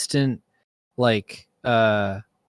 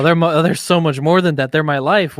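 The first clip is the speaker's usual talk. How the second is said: mock offended fan; 4 semitones higher, 5 dB louder than usual. Mock protest as Marvel devotee.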